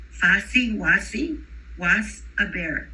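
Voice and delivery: Fuzzy Wuzzy with S sounds instead of Z, slow; Spanish accent. Retold or imitated. Teacher imitating an emergent bilingual reciting Fuzzy Wuzzy, Spanish accent. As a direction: read the rhyme the way a Spanish-speaking child would. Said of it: "they're gonna say".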